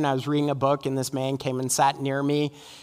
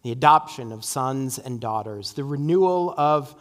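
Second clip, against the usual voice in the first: public prayer. Real, not acted. Leads closing prayer.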